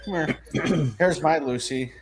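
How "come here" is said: high little pet-talk voice; coaxing a pet. Real, not acted. Owner getting the dog up to be shown, high coaxing voice. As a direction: urge the dog up, pitched high.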